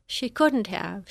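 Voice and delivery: slow and gentle, hardly pushing; gently. Acted. Friend gently doubting the girl's story, slow and tender. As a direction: ease the words out kindly. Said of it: "she says gently".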